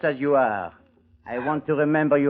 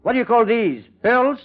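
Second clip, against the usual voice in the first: higher and louder, mocking; scornful outburst; 9 semitones higher, 5 dB louder than usual. Villain sneering at the cheat over fake pearls. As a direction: throw the fake pearls back at her.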